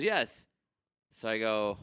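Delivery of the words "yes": high, louder eager yes; excited confirmation, voice lifted. Retold or imitated. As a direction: imitate an excited game-playing AI. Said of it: "Like that, like, excited".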